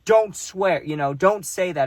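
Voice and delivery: loud, high scolding; scolding father. Retold or imitated. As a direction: bark out a warning to stop swearing. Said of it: "He's going".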